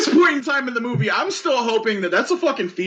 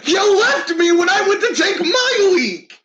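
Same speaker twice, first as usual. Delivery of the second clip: slower, higher and laughing, a wounded buddy; mock whiny complaint; 7 semitones higher than usual. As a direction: whine it like a hurt friend through a laugh. Hurt character, quoted.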